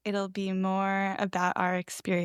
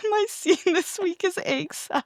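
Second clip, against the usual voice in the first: high, giggly imitation of the co-host; teasing mock quote; 9 semitones higher, 3 dB louder than usual. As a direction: mimic a friend's announcement through laughter. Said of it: "loser core to be like".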